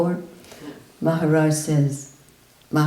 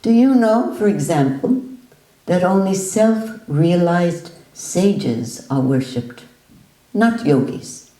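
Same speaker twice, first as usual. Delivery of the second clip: loud, higher pressing question; insistent challenge; 3 semitones higher, 3 dB louder than usual. Retold or imitated. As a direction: challenge him to admit it.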